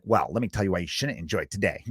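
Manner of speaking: low, soft, sly mock voice; insinuating killjoy, dropped low and soft; little snake. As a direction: imitate someone sliding in to spoil the fun. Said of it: "Just like little snakes and be like".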